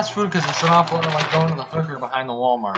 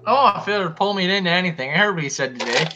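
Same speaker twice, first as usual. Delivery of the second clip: ordinary talk, nothing marked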